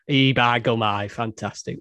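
a light put-on Northern English accent, half joking; playful Northern English accent send-up; mock northern accent. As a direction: toss off a jokey stock Northern English phrase in a Northern accent. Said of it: "It's not even northern proper".

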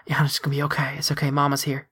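put-on hushed, gentle comfort to a child; soothing whisper. Mother soothing her hurt son.

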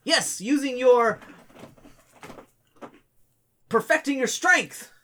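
high, slow careful restatement; corrected kid. Retold or imitated. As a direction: fix the line carefully. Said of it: "He's like".

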